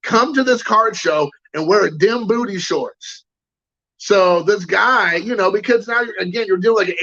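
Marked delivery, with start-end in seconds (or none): 0.0-3.2 mildly outraged imitation of an angry kid; lightly hammed-up scolding; mock indignation. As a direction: play up a kid's indignation, slowing at the end. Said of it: "he was angry about it".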